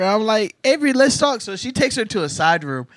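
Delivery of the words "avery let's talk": put-on firm call to child. Mom calling child firmly.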